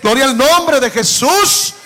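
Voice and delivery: slow, ringing preacher's proclamation; sermon cadence, swelling on each gloria; fervent preaching. Acted. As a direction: proclaim it to the congregation with full force.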